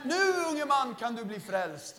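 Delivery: mock the preacher's solemn call; imitating preacher. Preacher voiced in retelling. (härmad predikant)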